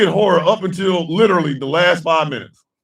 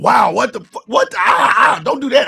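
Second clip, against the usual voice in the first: yelping "Wow, what the" in mock fright at the screen; half-laughing startled cries; mock horror reactions; 2 semitones higher than usual. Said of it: "we're sitting there going".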